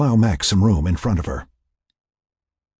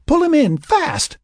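very high, urgent shout; fearful yell; 5 dB louder, slower than usual. A narrator's reading. Lynn can't raise Frank, urges Laura, fearful yell. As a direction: shout the command in alarm. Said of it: "Mac heard the fear in Lynn's voice".

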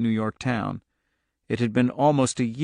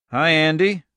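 higher, louder friendly hail; smiling greeting; 5 semitones higher, 5 dB louder than usual. A narrator's reading. Agent greeting the fugitive father, smiling. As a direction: greet with a smile, voice lifted. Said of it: "said and smiled".

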